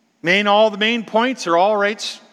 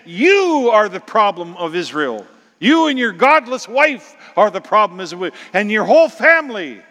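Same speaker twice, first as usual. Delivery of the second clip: loud, higher defiant rebuke; prophet's bold challenge to Ahab; 5 semitones higher, 4 dB louder than usual. Acted. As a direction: confront the king head on. Elijah confronting Ahab.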